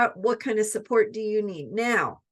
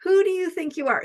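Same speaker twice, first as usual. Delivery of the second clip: curious wonder; 7 semitones higher, 4 dB louder, faster than usual. Shown as a demonstration. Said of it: "So let's turn that around".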